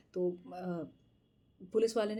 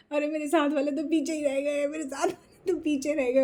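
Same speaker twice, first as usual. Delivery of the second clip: higher, louder call with the hands cupped round the mouth; calling out to the companions left behind, shouting; 6 semitones higher, 5 dB louder than usual. Retold or imitated. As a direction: holler after the friends left behind. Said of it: "ज़ोर-ज़ोर से चिल्ला रही हूँ".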